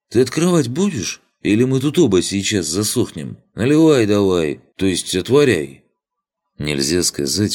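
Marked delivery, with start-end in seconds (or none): 0.1-5.8 loud impatient demand. Acted. Guard urges loudly.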